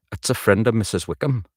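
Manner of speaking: rehearsed Newcastle lilt; Newcastle accent. Shown as a demonstration. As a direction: find the Geordie rhythm. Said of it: "the rhythm's okay".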